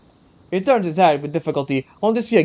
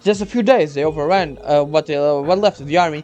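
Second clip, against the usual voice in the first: lightly raised earnest soldier; young soldier voice; 2 semitones higher than usual. Acted. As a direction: explain urgently, a hint of nerves.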